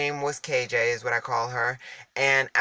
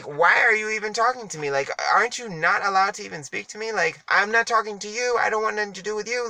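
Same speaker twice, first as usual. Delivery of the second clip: inner thought; 7 semitones higher, faster than usual. Retold or imitated. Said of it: "I'm thinking, like".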